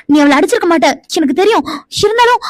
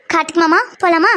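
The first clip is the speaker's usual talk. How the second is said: grudging, mildly irritated request; annoyed; 3 semitones lower than usual. Acted. Young woman made to call him mama, mildly annoyed. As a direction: ask with a touch of anger, under protest. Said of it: "கோவம்லாம் வருதா?".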